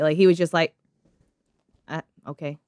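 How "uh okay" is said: low, very soft, indifferent reply; understated shrug of a response; unemotional. Acted. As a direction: toss it off quietly, without caring. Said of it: "he really didn't have any".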